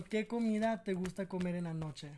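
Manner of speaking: ¿Qué comida te gusta comer en la noche? asked as a quiz; Spanish test line. Shown as a demonstration. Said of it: "Okay, one more".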